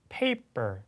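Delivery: paper with a tight, airless "pper" ending; unaspirated second P. Shown as a demonstration. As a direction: say paper with breath only on the first P. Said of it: "이런 발음이 나는 거죠". (paper 둘째 P는 바람 소리 없이)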